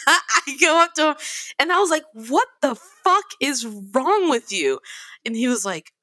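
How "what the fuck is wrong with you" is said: slow, mildly heated confrontation; re-enacted telling-off; retold angry yell. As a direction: demand it, drawing the words out. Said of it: "has heard me yell at them".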